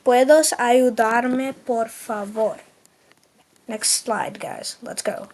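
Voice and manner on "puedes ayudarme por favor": very slow, careful Spanish; drawn out for the class to echo; slow repeat. Shown as a demonstration. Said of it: "Let's say it again".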